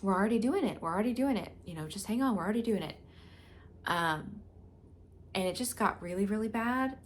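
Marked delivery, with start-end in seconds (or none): 0.0-3.0 higher and louder, a mock urgent doctor pressing on; a hint of a hurried doctor telling her to hang on. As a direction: imitate the doctor insisting, raised and pushy. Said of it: "the doctor was like".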